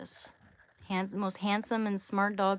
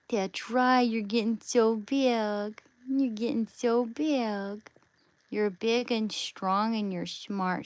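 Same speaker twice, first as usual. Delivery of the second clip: doting praise; 3 semitones higher, 4 dB louder than usual. Real, not acted. Praising the dog as it grows, high doting voice. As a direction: gush over the dog like a proud parent.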